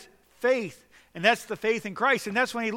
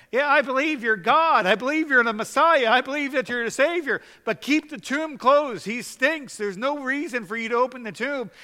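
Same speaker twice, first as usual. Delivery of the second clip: high, louder mocking voice of Martha; 7 semitones higher, 6 dB louder than usual. Preacher mimicking Martha refusing to open the tomb, mock high voice. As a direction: caricature her half-hearted faith. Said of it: "And she's saying".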